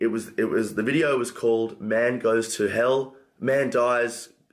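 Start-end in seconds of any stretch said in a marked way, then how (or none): none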